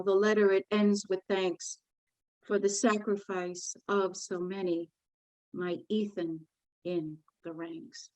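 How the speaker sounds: solemn, measured poetry reading; poem recitation. Acted. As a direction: read it like a grieving mother's lament. Reads her poem aloud.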